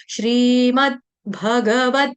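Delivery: very slow, drawn-out scripture title; measured Sanskrit recitation; formal recitation. Shown as a demonstration. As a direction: stretch each syllable of the title.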